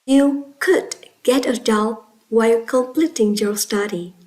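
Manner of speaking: firm emphasis on "could"; stress on COULD. Shown as a demonstration. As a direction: model sentence with "could" set apart and stressed. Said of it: "Now repeat after me".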